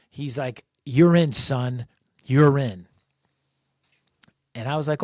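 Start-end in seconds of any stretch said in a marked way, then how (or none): 0.8-2.9 firm insistence. Retold or imitated. Impatient commander insisting, louder.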